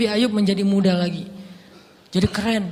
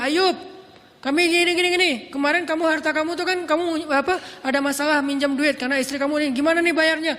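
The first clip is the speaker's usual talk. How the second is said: higher, pushy voice calling out to Ayub; relatives scolding from outside; 6 semitones higher than usual. Retold or imitated. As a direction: demand the money from across the yard. Relatives demanding debt from outside. (keluarga menagih utang dengan suara tinggi)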